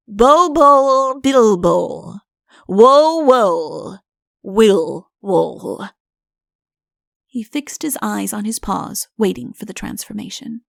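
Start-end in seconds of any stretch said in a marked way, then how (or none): 0.1-5.9 a touch of grand recitation in Udo's voice; declaimed. Acted. Udo declaiming the spell with his paw, grandly. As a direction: declaim the spell, arm sweeping.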